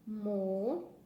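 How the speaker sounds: MO, NI, CA each said apart with pauses; syllable by syllable. Shown as a demonstration. Teacher splitting Mônica into syllables for pupils, syllable by syllable. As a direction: split "Mo-ni-ca" into three slow separate syllables. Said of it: "vamos separar em sílaba".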